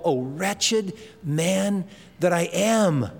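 slow, drawn-out mild lament; frustrated crying out. Acted. A frustrated believer cries out with Paul, lamenting slowly. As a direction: quote it as a weighty, understated cry. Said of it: "we cry out with Paul".

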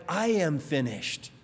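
a beaten man conceding, defeated; words of defeat. Retold or imitated. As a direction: let it sink like giving up. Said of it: "three words of defeat".

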